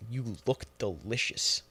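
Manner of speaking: soft, slow creepy purr; creepy murmur. Retold or imitated. Creep talking to a little girl, soft and slow. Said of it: "Fucking weirdo".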